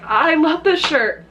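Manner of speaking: high, drawn-out retold complaint; mock lament. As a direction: stretch it out in mock heartbreak. Lamenting the torn shirt.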